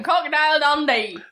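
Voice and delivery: lightly Australian "Crocodile Dundee", vowels broadened; thick Australian accent. Shown as a demonstration. Teen girl repeats a film title in a thick Australian accent. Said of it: "I said that in a very thick accent".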